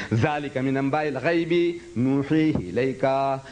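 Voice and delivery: quick chanted Arabic line; Quran recitation. Shown as a demonstration. Teacher reciting the verse between translations, in chanted Arabic. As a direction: recite it briskly. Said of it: "You read".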